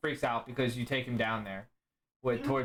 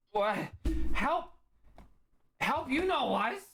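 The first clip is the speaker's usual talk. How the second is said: put-on much higher, childlike broken speech; broken-English Liger; 9 semitones higher than usual. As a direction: play a simple-minded big cat. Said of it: "The Liger responds with".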